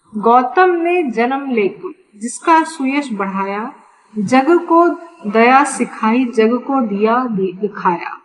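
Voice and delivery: measured verse reading with small pauses; poem recitation. Acted. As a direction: recite the lines of a Hindi poem.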